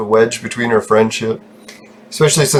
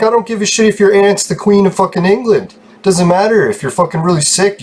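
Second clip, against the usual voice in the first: much higher, exasperated retelling; 8 semitones higher than usual. Retold or imitated. Retelling his outburst at the sick friend. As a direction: throw up your hands in disbelief.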